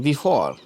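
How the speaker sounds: before with the last vowel drawn out; longer sound. Shown as a demonstration. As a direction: hold the "aw" in before long. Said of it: "longer sound रखें". (before में "ऑ" को लंबा खींचें)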